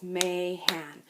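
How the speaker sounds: Mahan split into its two beats; syllables clapped out. Shown as a demonstration. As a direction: clap out Mahan slowly. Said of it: "Mahan has two syllables".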